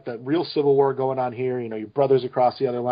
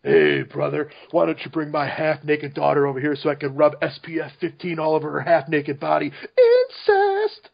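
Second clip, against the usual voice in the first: Hulk Hogan. Acted. Co-host doing requested wrestler for the host, wrestler impression. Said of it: "can you do Hulk Hogan?".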